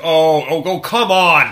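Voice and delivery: loud, high, laughing "oh, come on"; retelling the overnight partner's loud laughing outburst; laughing exclamation. Retold or imitated. Partner reacts to overheard call.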